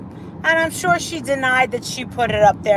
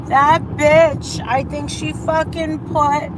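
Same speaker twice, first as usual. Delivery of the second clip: outraged friend; 6 semitones higher, slower than usual. Retold or imitated. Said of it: "And she goes".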